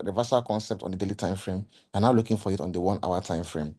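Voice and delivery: hoarse, voice giving out; strained, fading hoarse voice; losing voice. Real, not acted. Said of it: "I'm losing my voice a bit".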